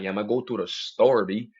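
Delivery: mimicked Spanish-neighborhood talk; match the Spanish dude's accent. Answering about the store, put-on Spanish-neighborhood accent. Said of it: "if I get around a Spanish dude".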